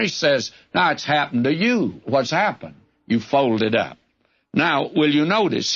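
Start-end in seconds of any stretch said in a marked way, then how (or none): 0.7-4.0 dry, mocking jab at a fallen friend; lightly sarcastic, twisting the knife. Eliphaz taunting Job, mildly sarcastic. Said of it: "in a very sarcastic manner".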